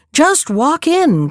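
calling out. Acted. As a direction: call out slowly to the visitor. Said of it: "cried the voice".

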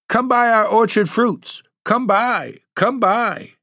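very high, shrill goblin hawking, falling at the end; goblin cry. Acted. Goblins calling to the maids to buy fruit, shrill high cry. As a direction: screech it like a goblin peddler luring buyers. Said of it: "maids heard the goblins cry".

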